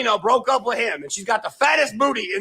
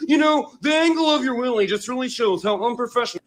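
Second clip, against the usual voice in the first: lightly put-on pedantic critic voice; mock a fussy online critic; a hint of a mocking voice; Tobias.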